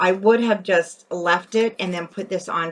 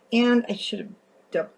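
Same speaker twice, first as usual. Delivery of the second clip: hiccups; 4 semitones higher than usual. Real, not acted. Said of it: "I have the hiccups".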